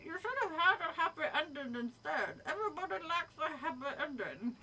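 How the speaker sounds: badly faked Jersey advice, amused; lightly hammed-up New Jersey monster; pretend New Jersey accent. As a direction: play at a Jersey accent, half laughing. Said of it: "pretend I'm doing a New Jersey accent".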